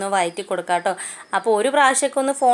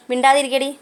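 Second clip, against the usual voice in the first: sharp raised hush-up call; loud scolding aside to the chicks; telling off the chicks; 5 semitones higher, 4 dB louder than usual. Real, not acted. Scolding noisy chicks off-mic.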